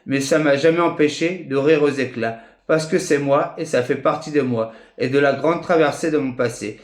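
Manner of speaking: measured, evenly cadenced spoken poetry; poem recitation. Acted. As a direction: declaim your poem phrase by phrase, with deliberate pauses. Recites own written poem.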